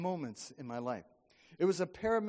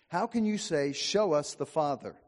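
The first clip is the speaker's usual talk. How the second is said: a touch of exasperation, louder; Jesus exasperated at Philip, louder; frustrated Jesus; 6 dB louder than usual. Acted. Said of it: "Can you feel Jesus' frustration?".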